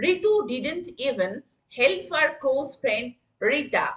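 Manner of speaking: very slow, word by word; slow classroom dictation. Shown as a demonstration. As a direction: spell it out slowly for the class. Teacher repeats the sentence.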